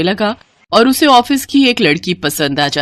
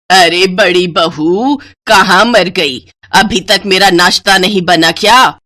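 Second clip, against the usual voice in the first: shouting; 3 dB louder than usual. Acted. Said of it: "जोर से चिल्लाकर कहती है".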